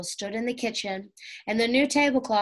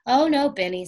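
louder, higher no; stopping him; 4 semitones higher, 6 dB louder than usual. A narrator's reading. Jessie stops her little brother from helping, louder. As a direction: call him off kindly but firmly.

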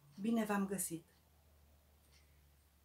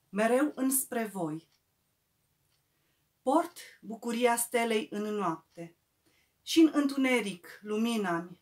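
measured recital, a pause after each verse; poetry recital; 3 dB louder than usual. Acted. Poet reading from a new volume to friends, measured recital. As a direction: recite verse by verse, weighting the repeated phrases.

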